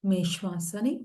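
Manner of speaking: calm, even yoga nidra guidance; measured meditation-teacher voice, unhurried gaps between phrases; guided meditation. Real, not acted. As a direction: settle listeners into stillness, with long pauses between instructions.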